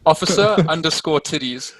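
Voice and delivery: giggling as he reads out the tag; a laugh breaking through the words. Real, not acted. Guest reveals his gamer tag to host, laughing.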